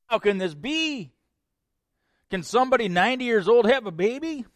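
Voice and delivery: high, loud, fast incredulous question; Sarah's disbelief. Acted. Sarah questioning God, high and incredulous. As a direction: ask it as if it's absurd. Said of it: "Sarah asked the same question".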